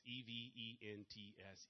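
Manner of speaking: E V E N T S, one letter at a time, slowly; slow spelling so the audience keeps up; spelled out slowly. Shown as a demonstration. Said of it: "that's why I slow down".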